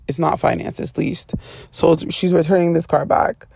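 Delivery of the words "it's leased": quietly fix the word leased; whispered correction. Real, not acted. Correcting herself about the car, whispered it's leased. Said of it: "no, it's leased".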